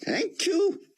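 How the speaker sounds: put-on a frail old rabbi straining through a thick Hebrew accent. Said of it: "came the thick Hebrew accent".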